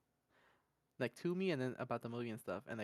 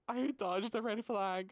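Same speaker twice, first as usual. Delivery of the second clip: high, loud and drawn out; exclaimed punchline; 7 semitones higher, 5 dB louder, slower than usual. Retold or imitated. Storyteller capping the girlfriend story, loud exclamation. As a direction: proclaim it slowly as the big punchline.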